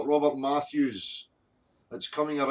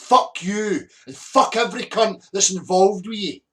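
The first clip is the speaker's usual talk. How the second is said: angry outburst; 5 dB louder than usual. Real, not acted. Furious rant at online critics.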